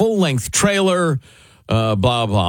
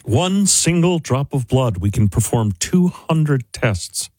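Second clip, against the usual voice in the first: lightly put-on founder's sales-pitch voice; Elizabeth Holmes. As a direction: mildly mimic a forced, solemn delivery. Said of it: "talked in this weirdly forced low voice".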